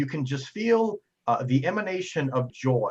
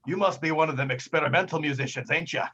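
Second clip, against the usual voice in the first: jolly bartender; 3 semitones higher, 4 dB louder than usual. Acted. Bartender inviting the player up, hearty and loud. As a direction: boom a welcome across the bar.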